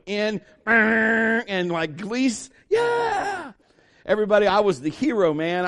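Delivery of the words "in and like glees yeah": cheering crowd. Retold or imitated. Crowd cheering the winning shot.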